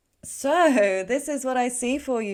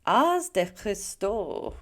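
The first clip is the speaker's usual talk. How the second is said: French accent; much slower than usual. Real, not acted. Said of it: "I'm butchering the French accent".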